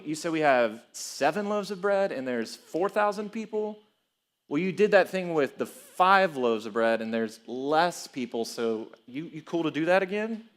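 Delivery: tentative, questioning lilt that climbs; clueless disciple. Acted. Preacher playing a disciple asking Jesus for bread, clueless. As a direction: play a clueless disciple sheepishly asking a favor. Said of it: "They're clueless".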